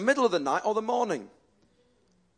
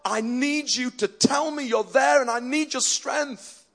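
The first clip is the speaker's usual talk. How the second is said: higher-pitched, pleading cry to God; 5 semitones higher, slower than usual. Retold or imitated. Preacher retelling his prayer from rock bottom, crying out. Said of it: "I cry out to God".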